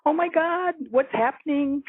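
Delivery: high, startled retelling of a frightened cry; alarmed cry. Retold or imitated. Woman retelling waking up in fear, a startled high cry. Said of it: "I cried out".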